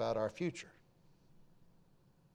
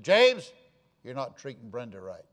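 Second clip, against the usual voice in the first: the grandpa confronting his son; grandfather's stern rebuke; 9 dB louder than usual. Retold or imitated. Grandfather rebuking his son in front of the family, loud stern call. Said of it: "different voice than normal".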